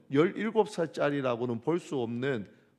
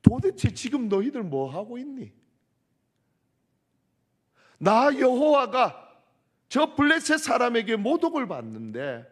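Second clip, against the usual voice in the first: much higher and louder, scolding a cowardly army; God's furious rebuke; 9 semitones higher, 7 dB louder than usual. Acted. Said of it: "이런 거 아닐까요?".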